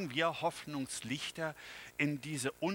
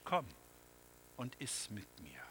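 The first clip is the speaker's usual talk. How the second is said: whisper; 4 semitones lower, 11 dB quieter than usual. A narrator's reading. God invites him to eat.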